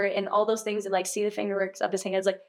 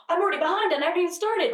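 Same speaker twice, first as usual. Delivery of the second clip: stressed; 9 semitones higher, faster than usual. Retold or imitated. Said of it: "stacking my whole day saying".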